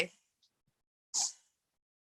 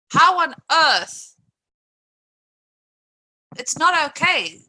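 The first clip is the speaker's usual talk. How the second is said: high, loud and slow outrage; an indignant streamer, stunned by the abuse; outraged disbelief; 7 semitones higher, 6 dB louder, slower than usual. Real, not acted. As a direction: let the disbelief spill over. Outraged at animal abuse videos.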